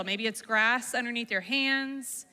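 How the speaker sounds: calm, soothing prompts with long pauses; guided visualization. Acted. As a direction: guide children gently into their favorite place. Leads a calming visualization.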